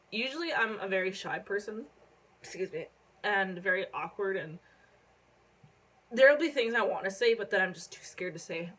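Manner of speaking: talking through hiccups; hiccuping between words. Real, not acted. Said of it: "I got the hiccups now".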